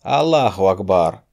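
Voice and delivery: loud, rasping battle cry; a killer bursting through the door with a shout; predatory croaking cry. A narrator's reading. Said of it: "хищный каркающий возглас". (хищный каркающий возглас)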